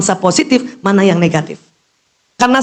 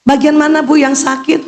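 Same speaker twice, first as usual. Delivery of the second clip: doctor asking; 6 semitones higher than usual. Retold or imitated. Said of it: "dokter tanya".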